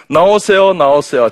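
high, loud imitation of a nurse; nurse hustling patients out. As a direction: call them out of the room insistently. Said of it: "간호사가 끌어냅니다". (환자를 끌어내는 간호사 흉내)

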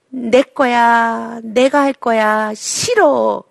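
put-on drawn-out insistent child, slow; mock toddler claiming it's his, slowed down; slow stubborn child. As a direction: stretch each word like a kid digging in. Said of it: "이러면서".

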